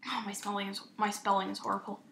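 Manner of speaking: whispered self-reproach; real hushed aside; embarrassed whisper. Real, not acted. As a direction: breathe it out, sheepish. Embarrassed aside about typing.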